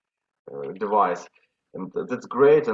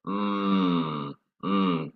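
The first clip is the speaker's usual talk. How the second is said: happy hum; 5 semitones lower, 4 dB quieter than usual. Shown as a demonstration. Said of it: "you could do this with happy expression, like from pleasure".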